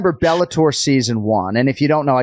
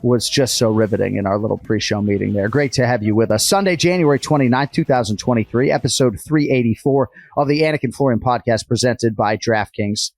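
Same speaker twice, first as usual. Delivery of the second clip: put-on Boston accent; 2 semitones lower than usual. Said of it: "I'm doing the whole show basically in a Boston accent".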